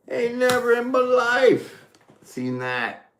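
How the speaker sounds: high, slow astonished cry; amazed. Real, not acted. Tarot reader shocked by a double card, high and amazed. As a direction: let the disbelief lift the voice high.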